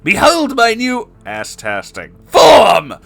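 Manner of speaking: hammed-up villain bellow rising to a yell. Spamton boasting of his new form, a building bellow. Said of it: "bellowed Spamton G Spamton".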